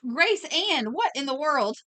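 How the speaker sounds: high, loud, playful disbelief; mock appalled. Streamer reacting to a bizarre chat message, mock appalled. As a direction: exclaim in mock shock, pitched well up.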